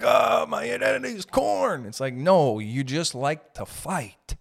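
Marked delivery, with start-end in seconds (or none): 0.0-1.9 high, sung-out mock metal cry; mock metal fan. Mimicking a fan found in the mosh pit, hammed-up cry. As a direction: belt it out like an overwrought convert. Mocking a converted fan of a metal band.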